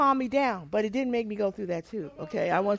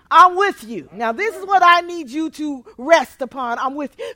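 laughing; 9 dB louder than usual. Retold or imitated. God's comfort retold, laughing.

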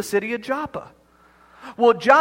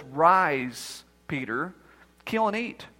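lower, hushed divine command; voice of the Lord; 4 semitones lower, 3 dB quieter, much slower than usual. Acted. The Lord commanding Peter in a low, hushed voice. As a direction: speak it low and soft like God from above. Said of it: "a voice from heaven commanded by the Lord says".

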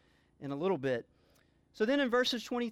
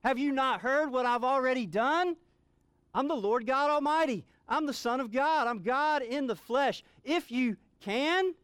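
higher and louder, a proclaiming shout; exclaiming; 5 semitones higher, 4 dB louder than usual. Acted. Preacher speaks as Jesus rebuking the father's doubt, proclaiming loudly. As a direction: declare it with full authority. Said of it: "he's exclaiming to this father".

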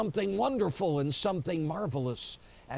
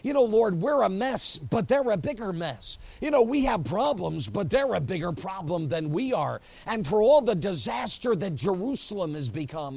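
much higher, louder desperate plea; the preacher begging God, raised and urgent; pleading with God; 3 semitones higher, 4 dB louder than usual. Retold or imitated. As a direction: cry up to heaven, arguing. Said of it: "looks up to heaven and says".

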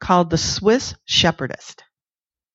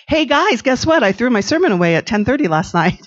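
excited announcement; 5 semitones higher, 4 dB louder than usual. Retold or imitated. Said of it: "came on Sunday morning and said".

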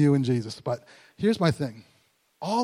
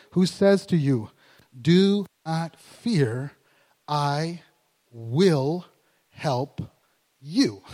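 slow scripture reading; much slower than usual. Acted. Reads scripture slowly, word by word.

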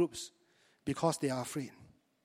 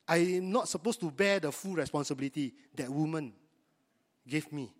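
lightly voiced man passing the blame; Adam shifting blame. Adam pleads to God, shifting the blame in a lightly mocking voice. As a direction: make it sound like someone else's fault. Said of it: "tried to mitigate it".

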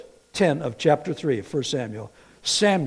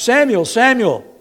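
a divine voice calling across the dark; calling out by name; 9 semitones higher, 9 dB louder than usual. Acted. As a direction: call the name out loud and high, like a voice from afar. God calls the boy Samuel.

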